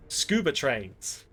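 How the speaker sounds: gasp, then slow, hushed Scuba trains; gasped revelation. Shown as a demonstration. Gamer unveiling the film title in dramatic slow awe. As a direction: announce Scuba trains like a grand discovery. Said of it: "That's the name of the film".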